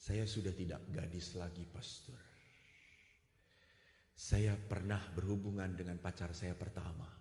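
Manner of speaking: a touch of a low, soft confession; quiet confession. Retold or imitated. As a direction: confess her past gently. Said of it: "girl confessing her past". (pengakuan lirih yang pelan)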